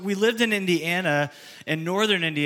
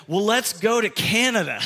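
laughing; 4 semitones higher, 3 dB louder than usual. Retold or imitated. Joking suggestion to his dad.

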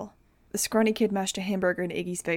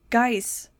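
shouted; 4 semitones higher, 5 dB louder than usual. A narrator's reading. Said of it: "I shouted".

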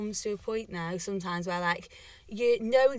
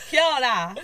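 put-on New Zealand accent; 6 dB louder than usual. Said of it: "thinking, like, New Zealand".

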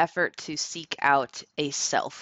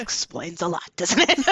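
said through real giggles; laughing; 3 semitones higher, 5 dB louder than usual. Real, not acted. Host joking about a Catholic upbringing, laughing. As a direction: break up laughing as you say it.

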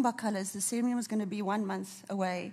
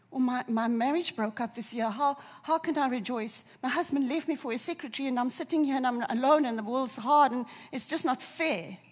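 mildly heated, higher-pitched complaint; aggrieved protest; 3 semitones higher, 5 dB louder than usual. Acted. Preacher voices an abandoned wife questioning rejoicing, aggrieved protest. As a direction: pour out the grievance, building in force. Voicing a hurt congregant's protest.

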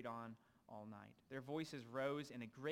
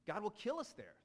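panicked claim; 7 semitones higher, 5 dB louder than usual. A narrator's reading. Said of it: "they claim".

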